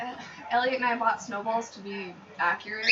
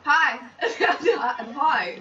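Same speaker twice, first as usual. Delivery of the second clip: bad Southern accent; 3 semitones higher, 5 dB louder than usual. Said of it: "that was a terrible accent".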